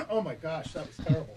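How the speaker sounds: hoarse and spent after coughing; choking on water. Real, not acted. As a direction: catch your breath after choking. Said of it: "I took a drink of water".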